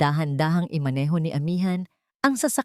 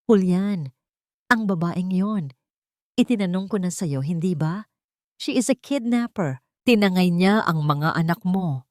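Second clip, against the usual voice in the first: a mild, understated accusing yell; lightly voiced furious matriarch; angry yell. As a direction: scold her son, a touch harsh. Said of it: "Ang bulyaw ng matanda".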